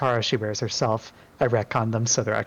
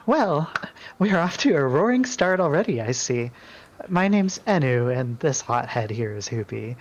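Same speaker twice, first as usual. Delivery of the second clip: a touch higher, polite goddess; lightly raised, courteous voice; lightly voiced Enu; 4 semitones higher than usual. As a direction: greet the newcomer graciously.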